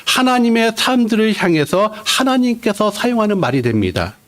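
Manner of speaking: ordinary delivery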